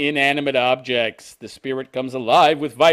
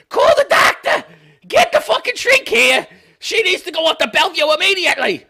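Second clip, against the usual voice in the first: very high, loud panicked yell; panicked shout; 8 dB louder than usual. Retold or imitated. Relative in a story shrieking for a shrink, loud and high. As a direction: scream for the doctor in a panic. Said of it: "I got the accent wrong".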